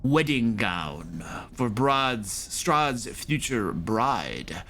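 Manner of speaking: slow, grandly drawn-out priest's bargain; priest making an offer. Acted. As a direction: spell out the offer slowly, with weighty pauses. Game master voices the priest.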